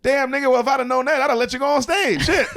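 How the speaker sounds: high, loud joking voice with laughter; half-laughing mock regret; loud high laughing quote. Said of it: "And he goes".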